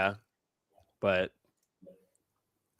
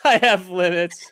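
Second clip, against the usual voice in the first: teasing echo; 2 semitones higher, 4 dB louder than usual. Retold or imitated. Teasing Nick about his limits, slow mocking echo. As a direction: mimic him slowly with a laugh.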